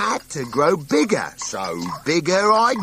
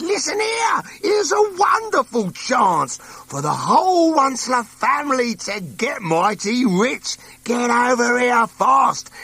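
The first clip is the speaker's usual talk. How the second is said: excited calling out; 4 semitones higher than usual. Acted. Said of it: "and I said".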